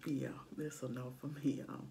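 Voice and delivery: talking between sips; speaking around a straw; straw at the lips. Real, not acted. Seen 0: Holds cup, straw tip at her lips while speaking.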